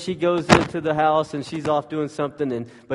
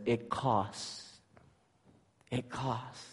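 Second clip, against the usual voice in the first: solemn God voice; 11 dB quieter, much slower than usual. Acted. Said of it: "God comes along and he says".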